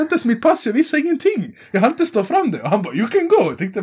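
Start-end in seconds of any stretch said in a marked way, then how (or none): 3.0-3.4 much higher breezy dismissal; imitating the cop. Border cop lets them go, much higher. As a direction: wave them off lightly.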